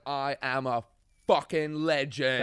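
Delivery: slow, punched self-congratulation; triumphant boast. Retold or imitated. Teenager who has broken into a festival, triumphant boast. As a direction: crow it, drawing out the last words.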